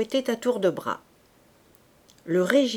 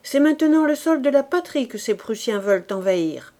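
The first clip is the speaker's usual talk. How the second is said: higher, louder patriotic call; rallying cry; 4 semitones higher, 5 dB louder than usual. Acted. Old commander to fleeing soldiers, rousing call. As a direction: rouse the men to defend the homeland.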